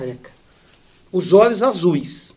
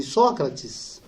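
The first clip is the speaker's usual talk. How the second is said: voz doce de criança; 5 semitones lower, 5 dB quieter than usual. Retold or imitated. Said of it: "uma voz doce de uma criança".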